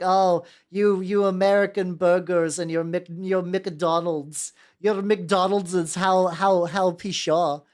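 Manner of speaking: slow, drawn-out hammed-up disdain; mock a snooty foreigner, dragging out the words; lightly acted pompous scoffing; mock sneering critic.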